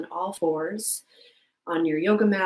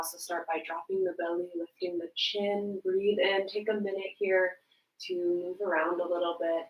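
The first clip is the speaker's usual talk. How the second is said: soft, unhurried yoga instruction; softly talking them through a stretch; yoga guidance; 5 dB quieter than usual. Real, not acted. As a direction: ease them gently into the stretch. Leads gentle yoga breathing.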